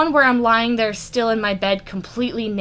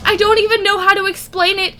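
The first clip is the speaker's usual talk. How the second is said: high, giddy rushed gushing; giddy excited; 4 semitones higher, 3 dB louder than usual. Acted. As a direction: gush like a smitten teen.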